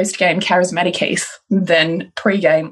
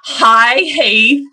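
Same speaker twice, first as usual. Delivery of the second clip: louder, upbeat greeting; bright friendly hi; 5 semitones higher, 4 dB louder than usual. Retold or imitated. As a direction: greet him warmly and openly. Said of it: "like this".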